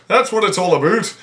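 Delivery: mock Canadian accent on "about"; stereotypical Canadian accent. Shown as a demonstration. Explaining that sort of East Coast talk, stereotypical Canadian accent. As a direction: round off "about" like a caricature Canadian. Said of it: "that sort of accent".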